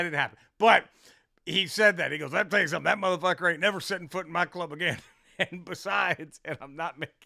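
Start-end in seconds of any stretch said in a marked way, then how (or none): 2.3-5.0 fast imitated owner rant; lightly hammed-up rapid tirade; irate club owner. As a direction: rattle it off as the annoyed owner.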